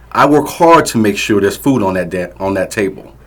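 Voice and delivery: loud, high berating shout; angry yelling. Acted. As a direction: tear into her over dinner. Drunk father berating wife.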